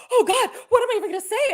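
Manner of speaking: high, loud, quick retold fluster; mock panic. Co-host retelling seeing the poll pop up, comic panic. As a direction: act out comic dread, pitch shooting up.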